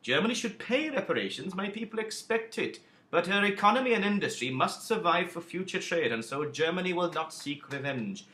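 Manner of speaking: a light impression of a British statesman; lightly voiced Lloyd George. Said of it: "Lloyd George".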